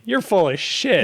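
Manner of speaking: put-on bratty kid voice. Girl retort.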